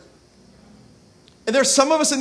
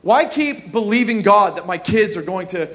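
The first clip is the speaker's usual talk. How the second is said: discouraged mantra. Retold or imitated. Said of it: "the mantra for being discouraged".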